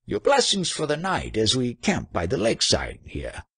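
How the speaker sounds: high-pitched, pleading call; mock bawl. A narrator's reading. Trader asking blessings for the night, restrained bawl. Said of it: "he bawled".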